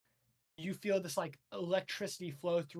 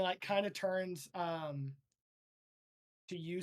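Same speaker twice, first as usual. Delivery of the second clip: ordinary talk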